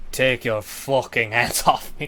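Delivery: flat, dead-level, lifeless monotone. Recounting a TV scene, replaying an actor's line as a monotone line. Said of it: "delivers the next line in like a very monotone monotone way".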